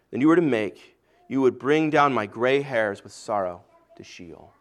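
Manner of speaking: measured, solemn Bible reading aloud; scripture reading. Acted. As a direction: read the Genesis passage to the congregation. Scripture reading before the sermon.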